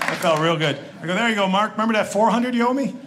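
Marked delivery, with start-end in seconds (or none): 1.1-2.9 higher, bright mock-generous holiday cheer; mock cheerful gift. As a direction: hand over the gift like a smug favour. Gifting debt-reducing certificate to brother.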